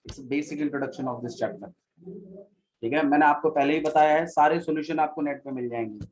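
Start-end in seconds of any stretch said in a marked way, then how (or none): 0.0-1.7 slow teaching. Real, not acted. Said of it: "देखो मैं धीरे धीरे पढ़ा रहा हूँ".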